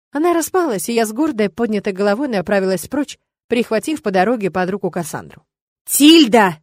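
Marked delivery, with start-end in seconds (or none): 5.8-6.6 loud call after her. Acted. Rector calling after the leaving witch, loud call. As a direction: call her back down the corridor. Понеслось мне вслед.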